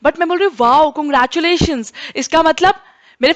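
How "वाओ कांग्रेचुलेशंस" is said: bright, pleased "wow, congratulations" said with a smile; teacher contrasting a cold version with a heartfelt "wow, congratulations"; happy congratulations. Shown as a demonstration. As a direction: sound genuinely delighted for them. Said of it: "ma'am दिल से congratulations कर रही हैं".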